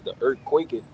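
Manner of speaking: slow, measured verse reading; scripture reading. Real, not acted. Reading about the earthquake to the group, deliberate scripture reading. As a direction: read it out phrase by phrase, with weighty pauses.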